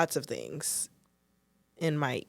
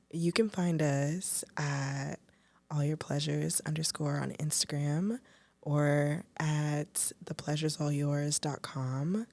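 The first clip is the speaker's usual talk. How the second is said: sexy voice; slower than usual. Pretend. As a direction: draw it out, sultry and hushed. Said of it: "in your sexiest audio erotic voice".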